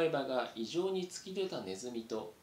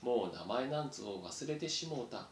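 put-on slow old mouse; 2 semitones lower than usual. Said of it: "床を見たままゆっくり".

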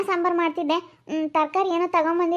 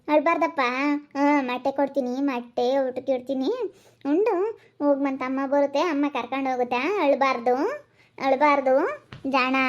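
gentle, coaxing reassurance; calm a tearful little one; soothing. Acted. Helper promising child his mother will come, soothing.

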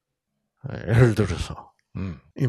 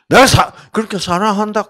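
loud, high, fast complaint; wife's loud retort; 9 semitones higher, 9 dB louder, faster than usual. Retold or imitated. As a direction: throw it back at him, loud. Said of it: "그러면 뭐, 뭐예요?".

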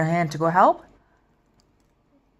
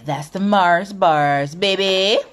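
excited; 3 semitones higher, 6 dB louder, much slower than usual. Real, not acted. Hyped about fried Mars bars.

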